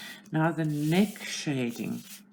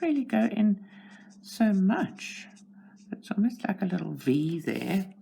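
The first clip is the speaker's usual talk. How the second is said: whispering; 4 semitones higher than usual. Real, not acted. Whispering while studying the shading.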